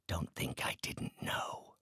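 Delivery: slow, near-whispered menace; soft, slow threat; hushed accusation. Acted. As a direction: drop to a breath and accuse.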